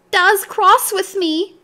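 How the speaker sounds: high, slow tearful little voice; sobbing. A narrator's reading. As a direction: sob it out like a hurt little child. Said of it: "she sobbed".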